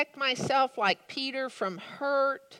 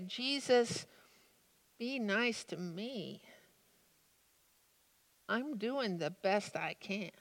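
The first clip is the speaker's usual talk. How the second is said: much softer, hushed confession; quiet plea for myself; 8 dB quieter than usual. Pretend. Preacher quietly asking Jesus for mercy for himself, hushed. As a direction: murmur the plea as if ashamed. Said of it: "I find myself actually wanting to say".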